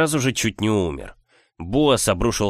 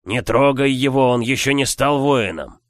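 firm loud plea; 4 semitones higher, 4 dB louder than usual. Acted. Sumarios insists firmly.

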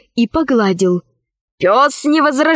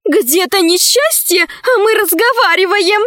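raised, agitated exclamation; urgent dismay; 8 semitones higher than usual. A narrator's reading. Dinara frets that they waste time talking, high dismay.

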